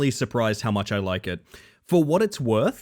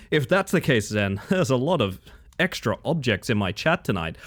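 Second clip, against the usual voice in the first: tickled laughing. Real, not acted. Laughing at own innuendo.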